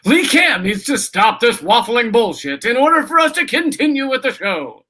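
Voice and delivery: playful put-on announcer projection; mock game show host. Contestant echoing the host about himself, mock game show host.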